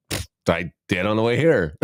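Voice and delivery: amused chuckling reply; laughing. Retold or imitated. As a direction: answer through a laugh. Retelling doctor's question, laughing answer.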